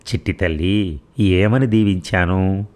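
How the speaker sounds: slow, lightly moved, understated tears; mother lightly holding back tears, slow. Acted. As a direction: ask slowly, fighting tears. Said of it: "కళ్ళనీళ్ళు ఆపుకుంటూ అడిగింది".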